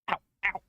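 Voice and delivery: sudden yelp of pain; short real ow of pain. Real, not acted. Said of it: "Cat's biting my foot".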